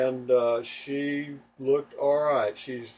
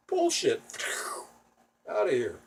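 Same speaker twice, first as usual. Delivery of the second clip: whispered scoff; 4 semitones higher than usual. Real, not acted. Scoffing at the claim.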